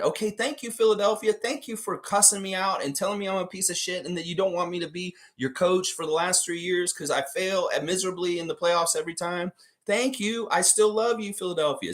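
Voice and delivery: playing the fired coach bowing out politely; gracious farewell. Voicing Doc's gracious farewell.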